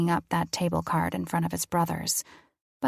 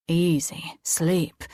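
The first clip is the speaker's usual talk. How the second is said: soothing whisper; much slower than usual. Acted. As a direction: lull her to sleep with a hushed order. Angel lulls girl to sleep.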